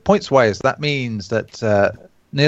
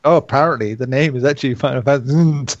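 lightly sarcastic mock revelation; faster than usual. Host proposing a joke article on the title, mildly sarcastic. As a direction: read it like a tongue-in-cheek article. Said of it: "a really sarcastic article".

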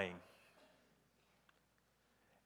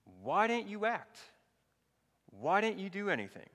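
acted-out complaint, pitched up; accusing; 6 semitones higher than usual. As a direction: demand an explanation, drawing out the words. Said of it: "accusation against Jesus, isn't there?".

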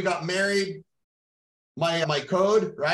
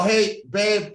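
raised, higher casual call; calling out to wife; 4 semitones higher, 4 dB louder than usual. Retold or imitated. Husband retelling how he told his wife, calling out. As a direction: call to your partner from across the house. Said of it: "I walk down and I go".

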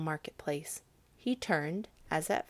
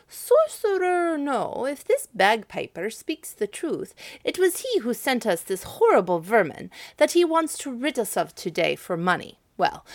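scheming councillor; 3 semitones higher, 5 dB louder than usual. Acted. Clever councillor reassures the citizens.

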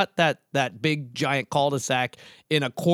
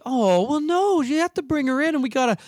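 fussy mom voice; 5 semitones higher than usual. Retold or imitated. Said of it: "and then her mom is like".

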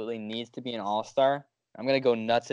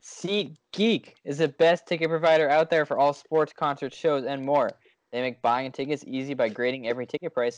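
ad read. Acted. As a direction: read it like a podcast ad. Ad read in podcast.

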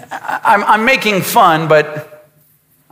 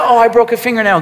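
lightly mocked whiny fingernail complaint; a hint of a prissy whine; mock girly complaint; much faster than usual. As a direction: play it as a fussy whine, barely voiced. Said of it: "girls do that".

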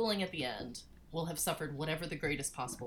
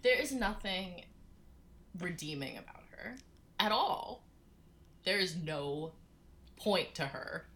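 slow, emphatic contempt; scathing critique; slower than usual. Real, not acted. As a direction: tear her apart, slowly. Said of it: "tell me why you hate her".

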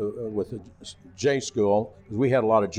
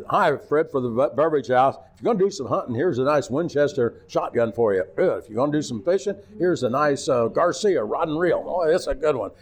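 higher, bright salesman pitch; mock live commercial, raised; ad read; 3 semitones higher than usual. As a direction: sell it fast on live TV.

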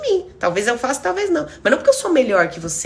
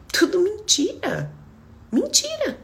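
whispered realisation; 9 semitones higher, slower than usual. Retold or imitated. Realising her old ideas were lies, slow whisper.

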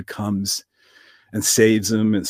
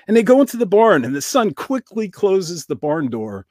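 usual speaking voice

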